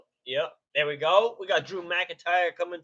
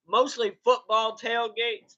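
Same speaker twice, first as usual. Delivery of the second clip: raised, higher, slow yell; yelling unawares; 4 semitones higher, 4 dB louder, slower than usual. Real, not acted. Streamer telling viewers what the channel covers, yelling. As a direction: talk too loud without hearing yourself. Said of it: "I'm yelling".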